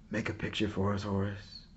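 soft, weary plea; soldiers pleading. Acted. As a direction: ask gently, tired from the trenches. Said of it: "his soldier friends pleaded".

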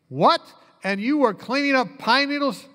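high-pitched mock disbelief; retold incredulous surprise; astonished reaction. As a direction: imitate someone blurting out amazed questions. Retold man astonished at professor.

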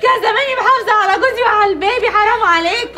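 loud sobbing lament; crying wail. Acted. Wife wailing to family that they ruined her marriage. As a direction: wail the regrets through tears. Wife wails over lost home.

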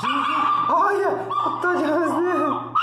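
high laughing squeal at the growling dog. Real, not acted. Owner laughing high as her dog growls over food. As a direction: giggle it out, amused and high.

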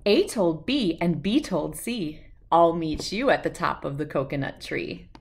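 lively singsong storybook read-aloud; reading to children. A narrator's reading. Host reading an alphabet book to young viewers, singsong and lively. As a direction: read it out to little kids with bounce.

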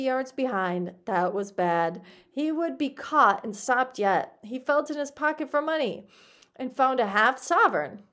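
expressive audiobook reading; story narration. A narrator's reading. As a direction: read it out as a lively tale. Reads the story aloud.

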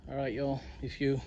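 winded after the climb; breathless, catching breath. Real, not acted. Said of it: "whew, I'm winded".

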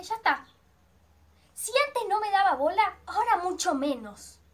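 despairing. Retold or imitated. Despair on being exposed.

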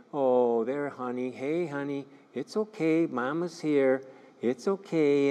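a mild, lightly voiced soothing mother. Mother on the monitor calming her crying baby, mild soothing coo. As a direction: gently coo to calm a fussing baby. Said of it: "heard the tone of voice".

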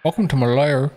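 lightly menacing welcome; a hint of a tough villain. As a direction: greet them like a lair boss. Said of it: "I'm gonna talk like this for a bit".

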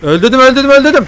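high, loud triumphant yell; real cheering after a kill; excited shout. Real, not acted. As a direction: crow over the kill. Scores a kill in the game.

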